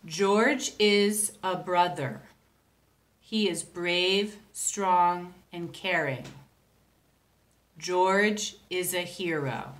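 poem reading. Shown as a demonstration. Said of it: "My haiku is about George".

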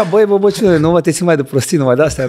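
a teammate telling him to quit the nonsense, loud mock scolding. Teammate scolding in retold quarrel.

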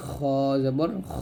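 thick "খ" rasped from top of throat; heavy letter. Shown as a demonstration. Teacher modelling for learners, "খ" heavy from the throat. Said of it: "এরকমভাবে মোটা করে".

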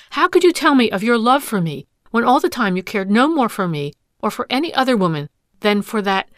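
loud, rising accusations; wronged wife berating the suitor; angry tirade. Acted. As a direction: lash out at the man who deceived her.

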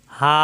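হা said with the mouth held open; airy open ha. Shown as a demonstration. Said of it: "মুখ খোলা থাকবে".

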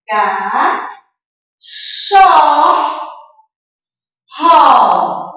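Ca, cho, ro, each stretched with long pauses between; separated syllables. Shown as a demonstration. Teacher separating the word for children, ca, cho, ro isolated. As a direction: sound out ca... cho... ro one piece at a time. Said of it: "Vamos repetir a palavrinha pra separar".

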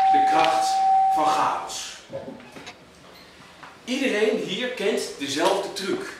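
measured poetry reading with deliberate pauses; poem recital. Acted. Poet reciting to an audience about Houten, measured recital. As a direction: recite it line by line, weighing each phrase.

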